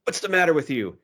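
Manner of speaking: high-pitched imitation of a bellowing bank robber; mock tough yell. Podcaster mimicking a bank robber scaring hostages, mock yell. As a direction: yell it like a tough guy, half in fun. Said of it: "you hear him yell out".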